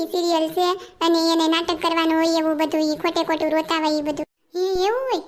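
lightly voiced daughter, amused; young daughter voice.

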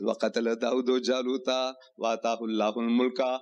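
rapid Arabic verse recited from memory; brisk recitation of the Arabic text; quick Quran recitation. Acted.

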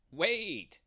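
high loud shout; cried. Acted. The ram shouts to Abraham from afar, high and loud. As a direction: call out desperately. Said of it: "cried the ram".

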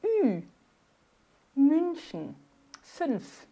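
Ü, München and Fünf with lips rounded for U while saying I; umlaut demo. Shown as a demonstration. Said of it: "boca de U e se fala um I".

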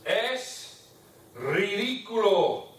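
"ridículo" drawn out slowly; slow dictation. Shown as a demonstration. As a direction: spell it out slowly for the class. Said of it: "teacher dictates phrase word by word".

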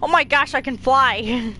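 delighted discovery, slow at first; excited. Real, not acted. Gasps, discovers jumping and flying.

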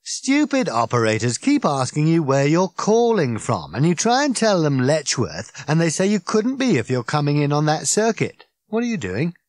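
a wound-up alien rambling on; Ford, tipsy and indignant; Ford, excited. Acted. Ford's drunken rant.

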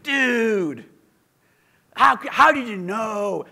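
high, loud dude voice; dude radio host. Retold or imitated. Video opening quoting the rock DJ in a high dude voice. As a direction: play the rock DJ amazed. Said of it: "I begin with".

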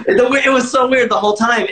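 amused after laughing. Real, not acted. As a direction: say it just after cracking up. Still amused right after laughing.

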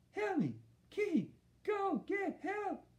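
very high muffled pleading; mouth full. A narrator's reading. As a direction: plead urgently with lips stuck to something. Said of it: "like he had something in his mouth".

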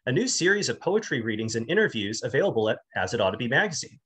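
lively, slightly sing-song host read; measured presenter reading with lifted key words; scripted show intro. Acted. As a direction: read out a poetry podcast introduction. Reads scripted show introduction and biography.

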